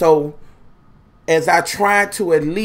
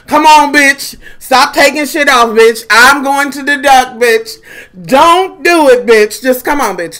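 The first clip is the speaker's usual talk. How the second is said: loud, higher scolding of her scale; mock scolding the scale; 4 semitones higher, 5 dB louder than usual. Scolding her bathroom scale, mock loud threats. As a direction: bark at the scale to behave.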